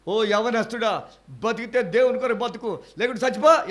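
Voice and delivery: high, loud charge ending on చచ్చిపో; thundering charge. Retold or imitated. Former student quoting the principal's old charge, loud and high. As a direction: shout "లేకుంటే చచ్చిపో" like a stern principal. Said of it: "మీరు ట్రైనింగ్లో ఏం చెప్పారు తెలుసా".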